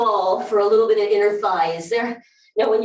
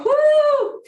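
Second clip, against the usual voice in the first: high, loud whoop of delight; excited whoop; 4 dB louder than usual. Real, not acted. Instructor whooping to the class during a stretch, excited. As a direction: let out a joyful high woo.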